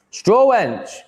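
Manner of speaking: shouted high and loud out of nowhere; a loud startled call; sudden shout. Real, not acted. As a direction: blurt the name out in a yell. Reading out a chat name, yelled.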